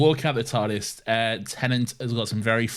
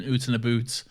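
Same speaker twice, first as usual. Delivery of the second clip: light mock Scottish accent. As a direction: slip briefly into a hint of Scottish. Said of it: "a go at the Scottish accent".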